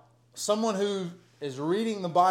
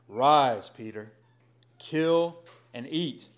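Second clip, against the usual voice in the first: voice of God; slower than usual. Acted. Voice of God to Peter.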